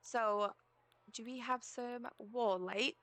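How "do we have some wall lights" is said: slow drawn-out put-on accent, a touch of twang; accidental fake accent. Real, not acted. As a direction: slip into a mild fake accent without meaning to. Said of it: "I just got a fake accent".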